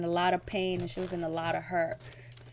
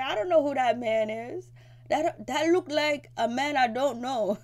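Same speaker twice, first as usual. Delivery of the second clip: mock crying; 6 semitones higher than usual. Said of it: "And she's crying".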